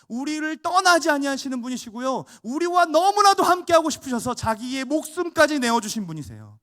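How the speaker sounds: loud, high fervent preaching; preaching at full force. Acted. Pastor exhorts the congregation, loud fervent preaching. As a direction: thunder it at the congregation.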